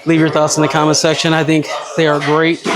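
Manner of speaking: panting after a hard set; breathless, catching air between words; out of breath. Real, not acted. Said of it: "I'm out of breath".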